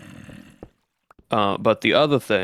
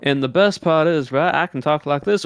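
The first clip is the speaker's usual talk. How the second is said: Southern accent; 5 semitones higher than usual. Shown as a demonstration. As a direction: slip into the Southern cowboy voice. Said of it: "talking in that Southern voice".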